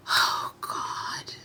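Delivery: unvoiced, whispered groan of despair; exasperated despair. Real, not acted. Vlogger worn out by what the hosts said, despairing. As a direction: sigh it out in a weary whisper.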